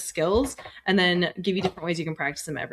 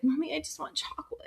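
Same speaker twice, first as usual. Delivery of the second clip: put-on whiny child; 9 semitones higher, 8 dB quieter than usual. Mother voices her young son.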